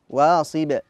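"واصب" stopped with a bounced ب; medium qalqala. Shown as a demonstration. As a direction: stop on "واصب" and let the ب echo. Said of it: "وقالوا وسطى".

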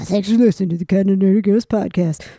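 playful impression of a friend doing the podcast outro; impersonating co-host. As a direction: mimic your friend reading the sign-off, lightly. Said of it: "This is my impersonation of you".

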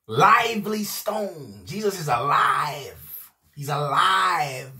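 slow, tearful, drawn-out words; tearful proclaiming. Real, not acted. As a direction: let the tears come as you proclaim him alive. Preacher overcome while proclaiming.

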